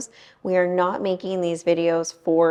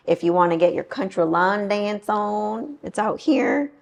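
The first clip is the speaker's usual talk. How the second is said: hammed-up country twang, lifting at the end; bad country accent; 3 semitones higher than usual. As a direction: put on a badly faked country accent. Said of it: "That was the worst country accent".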